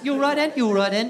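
put-on high-pitched British accent, words run together; mock British chirp; fast British greeting. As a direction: toss it off as a British hello. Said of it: "It's, like, very fast".

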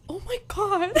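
high, laughing imitation of panicked screaming; mock scream. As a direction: reenact the shriek from the video, half laughing. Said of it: "screaming for her life".

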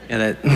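fake nose laugh. Shown as a demonstration. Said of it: "not that fake laugh that comes out your nose".

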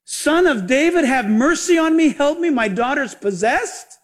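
high, imitated plea for mercy; retold crying out. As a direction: act out a mother calling for help, slowing at the end. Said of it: "A Canaanite woman cried out".

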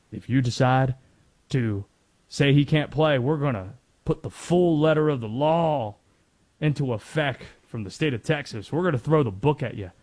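put-on light Southern accent, tough official. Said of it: "Don't know why I did a Southern accent like that".

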